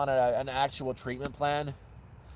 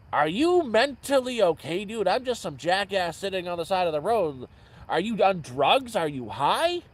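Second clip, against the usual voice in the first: incredulous; 5 semitones higher, 3 dB louder than usual. Retold or imitated. Incredulous reply to stranger.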